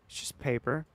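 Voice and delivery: "It's just paper" soft with a rising end; soft questioning. Real, not acted. Streamer repeating the defence to chat, soft and rising. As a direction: quietly shrug it off.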